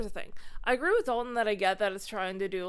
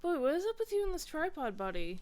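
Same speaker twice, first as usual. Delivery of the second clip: higher, sing-song voice to a dog; pet talk; 7 semitones higher than usual. Real, not acted. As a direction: tease the dog fondly. Cooing at the dog.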